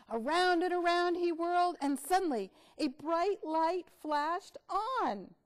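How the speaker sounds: loud, dramatic storybook reading; reading to children. Acted. Teacher reading a silly bug story to kids. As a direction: build the suspense big.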